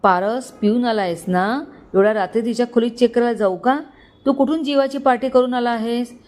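mildly irritated scolding; exasperated. Acted. Father scolding his drunk son, mild exasperation. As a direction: scold him, exasperated, rising at the end. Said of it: "Vishwambhar वैतागला".

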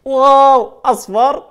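high and loud delight; excited cheer. Acted. Host cheering children after the magic, excited. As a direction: celebrate the trick with the kids.

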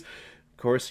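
normal talking voice

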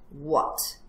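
mildly gruff question; touch of impatient fox; understated growl. Acted. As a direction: growl it with restraint. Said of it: "growled the fox".

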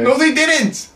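squeaky denial. Acted. High denial.

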